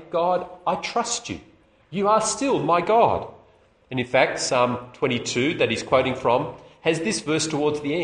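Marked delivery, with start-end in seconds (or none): 0.1-3.3 slow, sincere trust. Pretend. Preacher voicing Jesus trusting God, sincere. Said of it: "is still to say".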